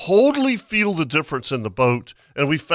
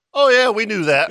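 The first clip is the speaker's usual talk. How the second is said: sheepish laughing; 6 semitones higher, 4 dB louder than usual. Retold or imitated. Mock face-saving after the mechanic's question.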